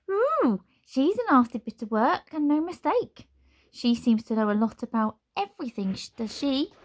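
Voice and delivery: very high, loud chattering candle; squeaky gossiping candle; talking candle voice. Acted.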